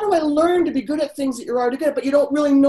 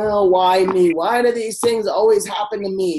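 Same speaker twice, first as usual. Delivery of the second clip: self-pitying whine; 2 semitones lower, 4 dB louder than usual. Retold or imitated.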